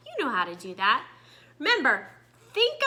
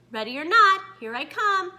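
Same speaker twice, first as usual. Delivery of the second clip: wobbly voice; 5 semitones higher than usual. Acted. Rita calling out in the dark cave, mildly wobbly. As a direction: call out, lightly unsure. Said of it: "Rita called in a wobbly voice".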